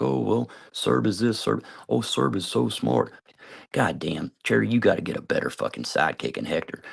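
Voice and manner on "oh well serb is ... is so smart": slow mocking praise. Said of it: "even if people was like".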